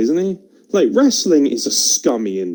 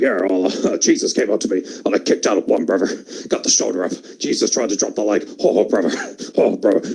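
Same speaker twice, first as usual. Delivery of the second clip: Hulk Hogan impression; 5 semitones lower, faster than usual. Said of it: "He's like".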